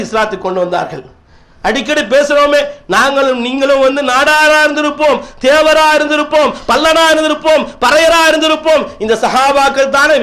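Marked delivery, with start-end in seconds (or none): 1.7-8.8 raised, insistent pulpit delivery; rhythmic sermon oratory; preaching. Real, not acted. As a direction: drive each item of the list home to the congregation.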